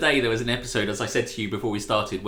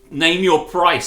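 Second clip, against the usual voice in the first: mock Janeway; 6 semitones higher, 8 dB louder, slower than usual. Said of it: "says Janeway".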